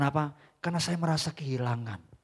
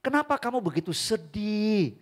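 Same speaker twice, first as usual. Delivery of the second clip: higher and louder, a booming divine call; voice of God; 13 dB louder than usual. Acted. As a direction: speak as God rebuking a grieving child. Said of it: "Tuhan tuh ngomong gini". (suara Tuhan yang lantang menegur anak-Nya)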